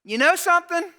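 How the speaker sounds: loud, high confrontational challenge; aggressive. Acted. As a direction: confront him head-on, pitched high and loud. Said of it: "She's a bit aggressive".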